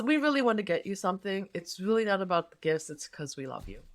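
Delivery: soft and quick, fading gently at the end; loving. Shown as a demonstration. Telling a guest the gift doesn't matter, lovingly. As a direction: reassure them lovingly that gifts don't matter. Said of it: "as opposed to loving".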